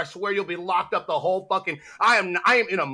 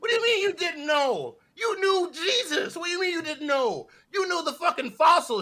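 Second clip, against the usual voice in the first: exasperated ranting; 11 semitones higher than usual. Acted. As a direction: wail each accusation upward in disbelief. Mock scolding over the catchphrase.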